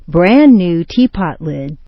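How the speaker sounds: "tea" carries stress, "pot lid" falls; compound intonation. Shown as a demonstration. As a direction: stress "tea" in "Brand new teapot lid". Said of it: "The main intonation patterns".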